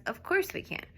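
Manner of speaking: "Of course we can." with a high rising pitch; high exclaim. Shown as a demonstration. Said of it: "Don't even do "we can".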